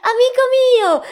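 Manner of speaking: high, loud joyful shout of the angel; joyful cry. A narrator's reading. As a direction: cry out with sudden joy. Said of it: "gridò l'angelo pieno di gioia". (l'angelo grida felice all'amico ritrovato)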